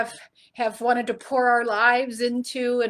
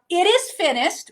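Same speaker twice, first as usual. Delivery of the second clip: raised, higher cry of it is finished; yelled out; 7 semitones higher, 5 dB louder than usual. Retold or imitated. Preacher voicing Jesus crying out from the cross, raised voice. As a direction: call it out as a triumphant cry. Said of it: "After he has yelled out".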